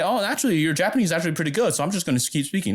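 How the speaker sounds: high, quick mock compliment; flattering native speaker. Locals praising a learner's Japanese, mildly gushing. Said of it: "They're gonna say".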